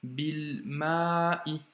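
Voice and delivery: "bil ma'i" with long "ma", then caught "i"; careful reading demo of "bil ma'i"; with liaison. Shown as a demonstration. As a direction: link "bil ma'i", holding "ma" and stopping before "i". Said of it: "j'ai fait la liaison".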